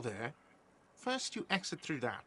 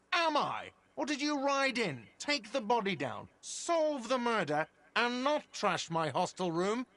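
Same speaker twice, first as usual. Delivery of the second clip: sarcastic; 4 semitones higher than usual. Acted. Sarcastic bartender confronting the cop.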